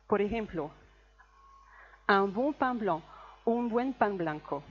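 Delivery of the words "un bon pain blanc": un bon pain blanc, each nasal vowel clearly nasal; French nasal vowels. Shown as a demonstration. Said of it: "Un o un, tres nasales".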